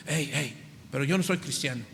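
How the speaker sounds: fast, lightly voiced husband objecting; a hint of a grumbling husband; quick mock protest. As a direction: toss it off like a defensive husband.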